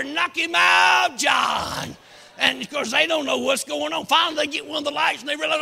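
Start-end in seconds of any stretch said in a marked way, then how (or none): 0.0-2.0 loud, slow, drawn-out cheer; men below cheering John on, hollering. Retold or imitated. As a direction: bellow it up the tree. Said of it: "Then holler".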